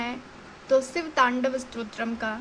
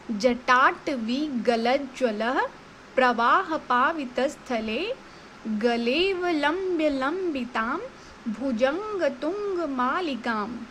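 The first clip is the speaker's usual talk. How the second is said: slow, word by word, each chunk separate; broken into pieces; slower than usual. Shown as a demonstration. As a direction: break it up syllable by syllable. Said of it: "ऐसे पढ़ेंगे".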